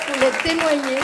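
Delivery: loud and high, full of joy; excited. Real, not acted. Telling the church he never came before, jubilant. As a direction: tell it with amazed delight. Joyful testimony climax.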